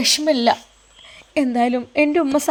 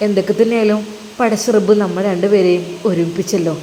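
lower, calm husband's voice; husband Sinan comforts his guilty wife, lower and calm; reassuring husband; 3 semitones lower than usual. Acted. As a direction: soothe her, he trusts her fully.

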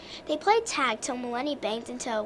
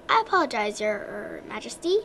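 awkward; 2 semitones lower, 3 dB louder than usual. Acted. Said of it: "said Lulu awkwardly".

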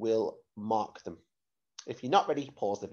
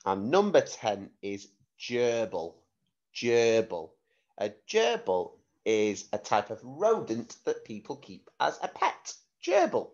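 clear, careful word-sentence-word dictation. Shown as a demonstration. Spelling test dictation.

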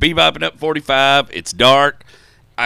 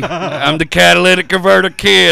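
mock confession; 5 dB louder than usual.

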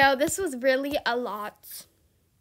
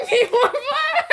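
much higher, squealing through laughter; laughing squeal; 12 semitones higher, 3 dB louder, slower than usual. Real, not acted. Streamer squealing as the bodyguard gives more gifts.

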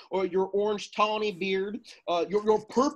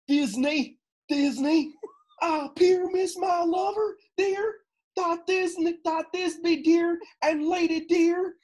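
much higher squeaky lady voice; monstrous little voice; 9 semitones higher than usual. Acted. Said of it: "I'll speak in a monstrous little voice".

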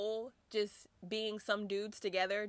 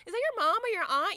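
higher, fast fake politeness; mock polite flattery; 11 semitones higher, 4 dB louder, faster than usual. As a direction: ask it sweetly to flatter.

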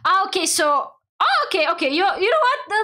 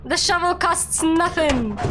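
raised, drawn-out pleading call; urgent calling out; 7 semitones higher, slower than usual. Acted. Streamer tells teammate to leave the shovel, urgent calling. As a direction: call it out high and slow. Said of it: "I'm gonna tell Tim".

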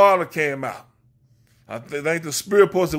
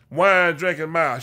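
rhythmic Sunday sermon cadence; preaching. Real, not acted. Preacher calling out his congregation, in full sermon rhythm. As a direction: preach it like a pulpit call-and-response.

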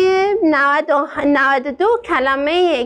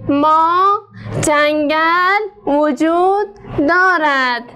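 slow, word-by-word reading; slow model reading; slower than usual. Shown as a demonstration. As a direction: read it slowly so pupils can follow. (خواندن کلمه به کلمه و آهسته)

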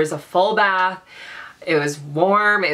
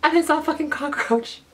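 horrified shriek; 9 semitones higher than usual. Real, not acted. Opening closet, finds cockroach.

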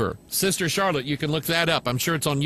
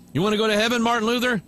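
lightly voiced monastery teacher pressing the boy; a hint of a stern monk testing young Luther; questioning monk voice; 6 semitones higher, much faster than usual.

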